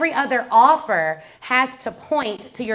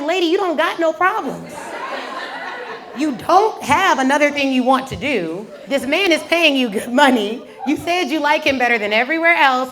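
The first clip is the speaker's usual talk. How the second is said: emphatic mock scolding; exasperated telling-off; 2 semitones higher than usual. Patient sets complaining hygienist straight, exasperated. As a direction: lay it out point by point, comically fed up.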